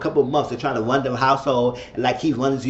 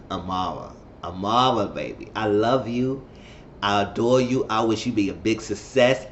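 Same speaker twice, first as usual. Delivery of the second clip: tender plea; 4 semitones lower than usual. Retold or imitated. Tender plea to Amara in recap.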